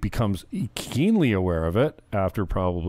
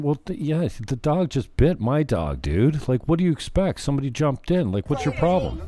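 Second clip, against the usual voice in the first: higher, lightly voiced indignant girl; a touch of an annoyed girl defending her dog; voicing the girl; 5 semitones higher than usual. Girl protesting to the man after her dog is bitten, higher and indignant. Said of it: "And the girl's saying".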